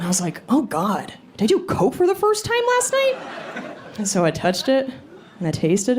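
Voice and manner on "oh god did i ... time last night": mock panic. Panicking over white powder.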